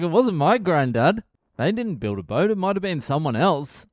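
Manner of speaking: lightly voiced father waving the story off; dismissive old dad. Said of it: "He's like".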